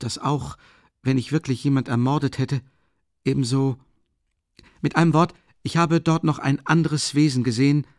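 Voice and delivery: feverish Raskolnikov. Acted. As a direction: confess like a man near collapse.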